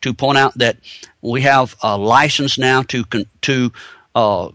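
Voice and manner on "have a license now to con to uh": dry sarcastic mockery. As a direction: say it with a sarcastic edge. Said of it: "I'm being sarcastic here".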